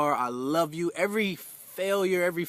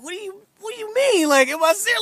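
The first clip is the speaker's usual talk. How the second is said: much higher and louder, bursting with hype; husband reliving his hyped disbelief to his wife; 6 dB louder, faster than usual. Retold or imitated. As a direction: replay the moment you couldn't contain your excitement. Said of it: "I'm hyped".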